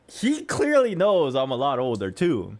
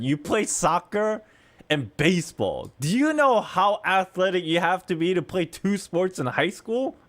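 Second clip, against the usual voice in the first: mildly incredulous, pitched up; retold incredulity; 3 semitones higher than usual. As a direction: question it in mock disbelief. Retold astonishment at kid's sports.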